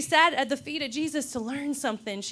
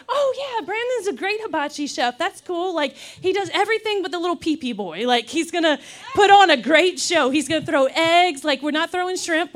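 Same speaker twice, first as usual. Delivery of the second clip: excited host; 3 semitones higher, 5 dB louder than usual. Retold or imitated. Her eager party invitation retold.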